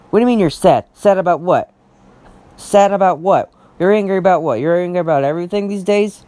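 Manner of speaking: mild, real irritation in rapid-fire questions; a little angry. Real, not acted. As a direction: demand an answer, slightly angry. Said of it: "Sorry to get a little angry".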